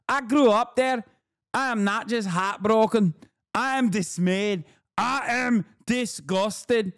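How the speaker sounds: hammed-up parody of the commentator's indignant read; mocking E Fartlaw. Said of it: "my natural, organic Middle Eastern accent".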